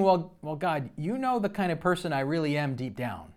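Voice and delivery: protesting prayer. Retold or imitated. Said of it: "I was kind of saying".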